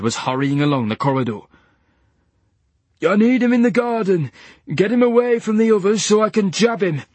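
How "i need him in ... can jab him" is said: high, loud command; urgent order. A narrator's reading. Nurse ordering the guards, urgent. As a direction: give the order fast.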